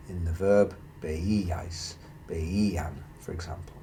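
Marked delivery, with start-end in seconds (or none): 1.0-2.9 veíais, veían, each stressed on the middle Í; stressed I sound. Shown as a demonstration. Teacher showing examples of the accent in the verb, stressed I sound. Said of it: "you have to stress the I sound".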